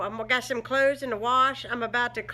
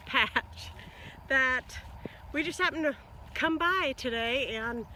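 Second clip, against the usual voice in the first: breathless after a scramble; catching breath between phrases; 3 semitones higher, 4 dB quieter than usual. Real, not acted. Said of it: "I'm totally out of breath".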